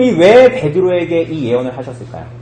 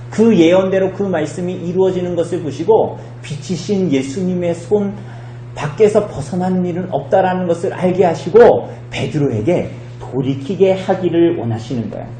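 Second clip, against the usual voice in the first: normal talking voice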